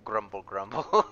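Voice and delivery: slow grumbling; old dog grumble. Shown as a demonstration. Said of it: "She old. She go".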